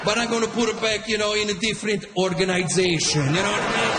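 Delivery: a hot-headed Italian father threatening the line-cutter; Italian dad. Retold or imitated. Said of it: "always comparing himself".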